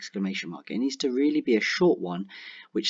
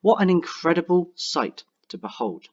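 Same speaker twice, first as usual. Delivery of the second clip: higher, louder exclaim; exclamatory; 6 semitones higher, 3 dB louder than usual. Shown as a demonstration. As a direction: say it with wonder. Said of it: "which will make your reader say".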